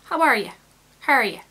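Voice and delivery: "How are you?" with full vowels and a clear you; standard "how are you". Shown as a demonstration. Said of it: "So you have to go from".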